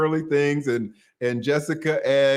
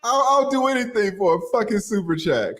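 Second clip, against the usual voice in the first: hammed-up hype; 9 semitones higher than usual. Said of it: "Watch this".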